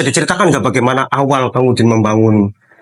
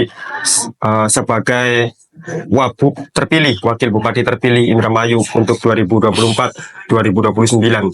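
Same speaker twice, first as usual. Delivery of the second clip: show host intro. Acted. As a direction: greet viewers like a TV host.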